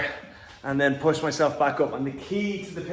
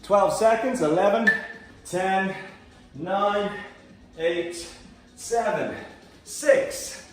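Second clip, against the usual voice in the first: loud countdown; 2 semitones higher, 4 dB louder, much slower than usual. Real, not acted. Coach counting down class start.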